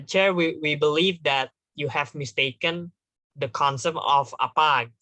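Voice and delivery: slow diplomatic address to the chair; slow, careful. Shown as a demonstration. Delegate correcting the chair politely, slow and careful. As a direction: take it slowly and tactfully, with measured phrasing. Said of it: "ngomongnya pelan-pelan".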